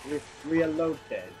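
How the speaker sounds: put-on slow, drawn-out Russian accent. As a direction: say "reloaded" slowly in a Russian accent. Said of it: "Like my Russian accent".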